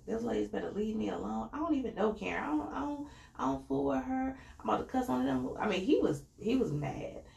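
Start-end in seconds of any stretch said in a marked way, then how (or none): 0.0-5.5 rising, heated mock rant, much higher; imitating Juan cussing. Juan fed up with the ladies, higher heated mock rant. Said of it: "Juan's cussing and he's like".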